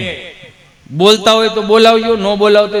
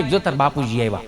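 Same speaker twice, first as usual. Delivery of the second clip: hushed warning; 7 semitones lower, 8 dB quieter than usual. Retold or imitated. Mother warns naughty kids.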